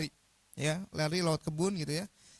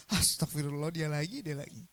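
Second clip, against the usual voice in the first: weary principal; 3 semitones lower than usual. Retold or imitated. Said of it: "Apa reaksi kepala sekolah?".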